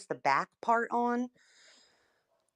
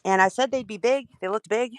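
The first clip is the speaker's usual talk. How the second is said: slightly winded, catching breath; out of breath from squeezing on seat covers; 4 dB louder, faster than usual. Real, not acted. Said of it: "I'm out of breath".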